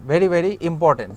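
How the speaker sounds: very very important drawn out slowly; slow emphasis. Shown as a demonstration. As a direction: stress each word, slow. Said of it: "teacher stressing importance".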